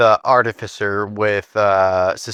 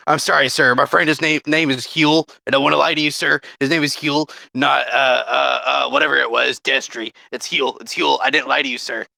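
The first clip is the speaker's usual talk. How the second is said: higher, flustered and apologetic; flustered apology; 4 semitones higher than usual. Acted. Halfling confesses his fake name to the crime boss, flustered and higher. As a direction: scramble to confess, eager to please.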